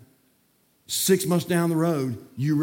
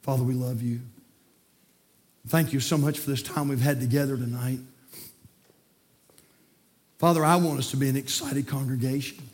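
closing prayer. Acted. Pastor praying for his congregation at the invitation, earnest prayer. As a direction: lift the church up to God.

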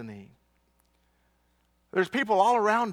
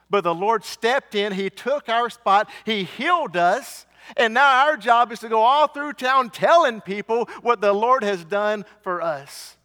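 rising preacher fervor; 5 dB louder than usual. Acted. Pastor rallying the congregation, fervent and louder. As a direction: preach it, building to the call to go tell the town.

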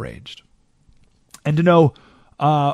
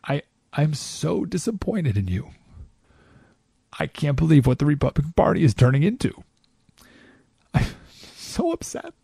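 holier than thou; 6 dB quieter than usual. Retold or imitated. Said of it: "super holier than thou".

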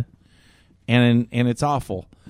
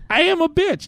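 high laughing self-mockery. Real, not acted. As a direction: laugh it out at yourself. Laughs at own rant.

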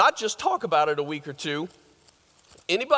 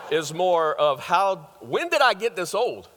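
laughing; 2 semitones higher than usual. Real, not acted. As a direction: chuckle while asking. Laughing at own age.

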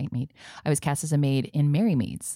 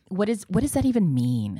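ordinary talk

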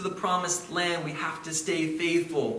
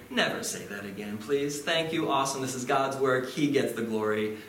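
gentle; 5 semitones lower than usual. Retold or imitated. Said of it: "very gently say".

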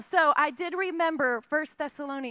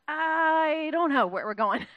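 cheerfully clueless Paul; 3 semitones higher, 6 dB louder, slower than usual. Retold or imitated. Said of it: "And he's like".

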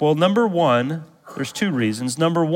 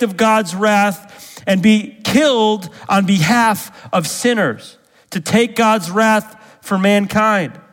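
raised, driving pulpit voice, higher pitch; fervent preaching; 6 semitones higher than usual. Acted. Pastor urging his congregation, preaching at full force. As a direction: preach it hard, pressing every point home. Pastor rising to passionate emphasis.

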